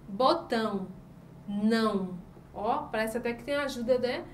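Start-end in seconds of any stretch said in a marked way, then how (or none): 0.1-2.2 "Botão, não" with the ão sent through the nose; nasal vowel. Shown as a demonstration. Teacher showing what the tilde sounds like, nasal vowels. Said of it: "E o tio indica o som nasal da vogal".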